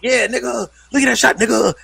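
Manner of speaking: high, mocking gamer trash talk; white boy gamer. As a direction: imitate a white kid putting on slang online. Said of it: "the white boys get on there, and they're like".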